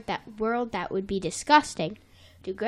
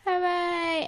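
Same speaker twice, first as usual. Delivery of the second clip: cheering; 7 semitones higher than usual. Retold or imitated. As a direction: lead the crowd's cheer. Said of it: "he's like".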